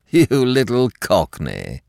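affectionate. Acted. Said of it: "he had said affectionately".

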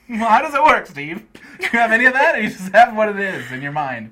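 loud, high challenging voice; mock-challenging loud question. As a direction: push him with a skeptical question. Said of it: "it's like".

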